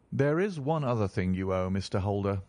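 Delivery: a firm rebuke to the banker; stern. Acted. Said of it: "said Sherlock Holmes rather sternly".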